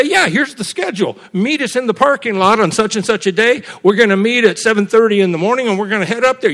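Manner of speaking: retold upbeat organizer giving out details; announcing plans. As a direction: call out the schedule to a keen group. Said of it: "And we'd say".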